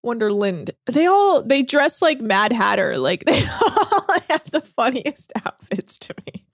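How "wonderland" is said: "Wonderland" ending in a reduced "lind"; accented reduced ending. Shown as a demonstration. Host owning her accent, "Wonderland" said as wonder-lind. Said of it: "I have an accent".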